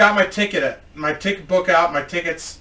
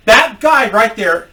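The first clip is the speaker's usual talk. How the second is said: slow, louder, higher mock indignation; acted accusation, pitched up and drawn out; accusing customer; 5 semitones higher, 6 dB louder than usual. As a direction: point the finger loudly, word by word. Customer accuses employee to boss.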